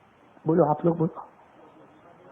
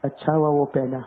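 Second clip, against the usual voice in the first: dry comeback; 4 semitones lower, 3 dB quieter than usual. Retold or imitated. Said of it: "میں کیا بولا معلوم".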